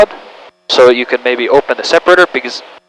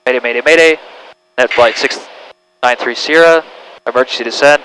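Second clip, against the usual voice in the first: mayday radio call. Shown as a demonstration. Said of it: "you declare an emergency".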